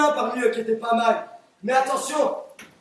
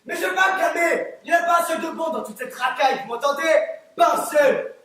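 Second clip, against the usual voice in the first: furious tirade; 2 semitones higher than usual. Acted. Refuses to calm down, rants.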